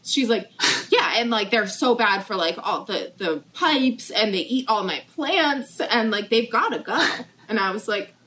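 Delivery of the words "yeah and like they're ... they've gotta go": lightly imitated sales pitch; persuasive pitch. Mother selling her daughter on killing iguanas, lightly imitated persuasion. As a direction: pile up reasons to win someone over. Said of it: "she's trying to sell me on this".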